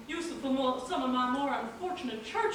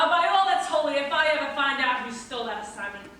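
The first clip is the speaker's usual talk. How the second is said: loud threat; 5 dB louder than usual. Acted. Priest threatens unknown thief.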